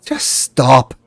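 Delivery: a hint of a gruff master's voice; mild dismissive growl at the servant. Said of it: "a much deeper voice".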